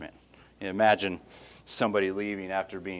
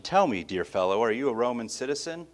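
friendly question. Shown as a demonstration. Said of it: "a friendly little question".

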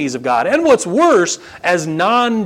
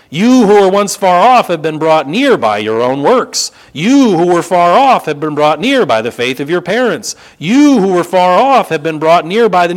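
lifting the voice to parody a wrong claim; mock false version; 6 dB louder than usual. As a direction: proclaim the wrong idea loudly, then knock it down. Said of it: "Please notice what he doesn't say".

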